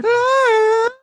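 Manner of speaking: high, loud burst of laughter; laughing hard. Real, not acted. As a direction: laugh through the words. Cracking up at bad singing.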